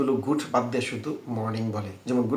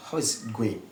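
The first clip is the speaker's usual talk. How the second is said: how is it going said slowly and carefully; slow repeated demo; much slower than usual. Shown as a demonstration. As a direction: spell it out slowly for learners. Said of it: "তাহলে আপনারা কী বলবো". (ধীরে ধীরে অনুশীলন করে বলা)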